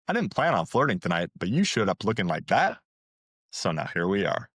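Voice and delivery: cocky and sure, quickly delivered; edgy confidence. Shown as a demonstration. Dating coach shows a bold flirty line, edgy and confident. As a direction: own the moment with swagger. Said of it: "full edgy confidence".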